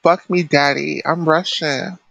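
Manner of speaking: badly faked Russian accent; unconvincing, half-hearted Russian accent; attempted Russian accent. Shown as a demonstration. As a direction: have a go at a Russian accent and miss. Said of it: "do a Russian accent".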